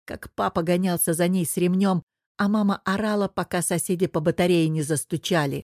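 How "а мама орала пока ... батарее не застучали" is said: ordinary delivery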